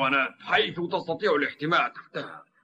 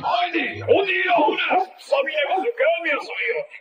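calling out; 12 semitones higher than usual. Acted. Boy calls Heidi back from a distance, shouting high. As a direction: call her back from far away.

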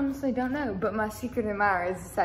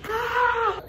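startled yelp; 12 semitones higher, 8 dB louder than usual. Real, not acted. Nearly breaks something.

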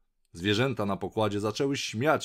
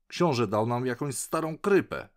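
mildly grumbling, higher-pitched piglet; narzekanie prosiaczka; 5 semitones higher, 4 dB louder than usual. A narrator's reading. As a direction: complain with a touch of indignation. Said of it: "wyrzekał prosiaczek Gub Gub". (lekko podniesiony, narzekający głos)

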